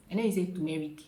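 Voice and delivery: turmeric said as "tumeric" with no first r; the common mistaken turmeric, r dropped; "tumeric" demo, wrong way. Shown as a demonstration. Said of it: "It is not turmeric".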